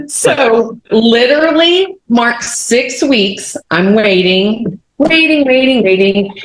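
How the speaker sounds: slow, high, stretched words; drawn-out waiting. Retold or imitated. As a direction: drag out each word to show the endless wait. Dramatising the long six-week wait.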